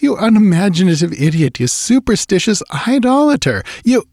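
high, loud jeering; mocking outcry. A narrator's reading. Narrator jeering at his superstitious friend, mocking outcry. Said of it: "I cried, laughing aloud in his face".

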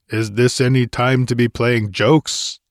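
mildly irritated, biting question; understated scorn from an annoyed warrior; acid demand. A narrator's reading. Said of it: "he demanded acidly".

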